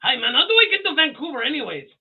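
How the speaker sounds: hammed-up macho dude; imitating Bolo. Continuing Bolo impression.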